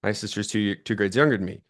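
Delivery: reach out with hopeful excitement; eager recognition. Retold or imitated. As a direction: pitch up on Oh, Crystal then rush on. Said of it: "And I go".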